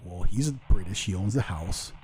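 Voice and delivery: dry sarcastic explanation; slow, sarcastic, stating the obvious. Retold or imitated. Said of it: "in the sarcasm".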